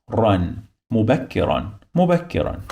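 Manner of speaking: "مبكرا" ending in a clear "ran"; added noon sound. Shown as a demonstration. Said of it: "You must add the sound of noon after, like this".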